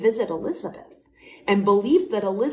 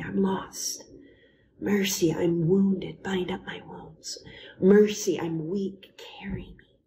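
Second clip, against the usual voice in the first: prayerful. Acted. Leading listeners in a heartfelt spoken prayer. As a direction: pray it aloud, pleading and surrendering.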